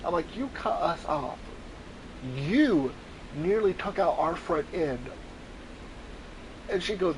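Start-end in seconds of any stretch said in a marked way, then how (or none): 0.4-5.0 calm. Retold or imitated. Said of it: "I approach it like a calm person".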